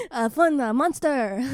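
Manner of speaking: put-on Mexican accent, the better attempt; Guillermo del Toro. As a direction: introduce yourself in a mock Mexican director's accent. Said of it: "I'm Guillermo del Toro".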